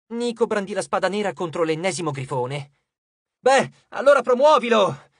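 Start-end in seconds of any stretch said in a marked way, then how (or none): 3.4-5.1 high, loud exclamation; impatient call. A narrator's reading. Nico to Jason while fighting griffins, impatient shout. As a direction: call out the obvious fix over the fighting.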